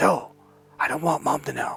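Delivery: hushed, secretive, confidential whisper. Retelling a brother's phone call: imitating someone whispering. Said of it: "Why are you whispering?".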